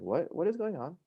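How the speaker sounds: high, bewildered question; retold bewilderment. Patient retelling his reply to the nurse, bewildered. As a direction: pitch leaps up in mock confusion.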